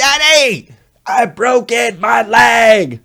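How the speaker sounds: very high-pitched, very loud, panicked scream. A father retells his son yelling at him after hurting his leg on a trampoline. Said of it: "finally he yells at me".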